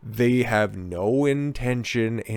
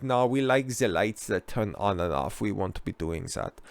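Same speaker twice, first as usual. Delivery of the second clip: softer, dopey mock voice; mock dopey politician; 3 semitones lower, 7 dB quieter than usual. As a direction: play them as clueless, quietly. Mocking EU dependence on energy.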